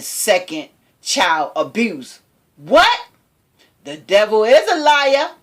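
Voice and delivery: lightly acted indignation at the accusation; best acting voice. Reading the man's social media response to TMZ, best acting voice. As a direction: quote him in an amateur dramatic voice. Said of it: "say this in my best acting voice".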